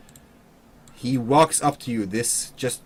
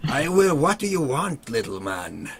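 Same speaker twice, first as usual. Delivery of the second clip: dopey cartoon bellow. Brute innkeeper bellows at player.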